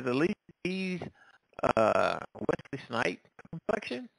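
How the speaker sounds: breaking up phone line; choppy bad connection; call dropping out. Real, not acted. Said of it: "You're breaking up".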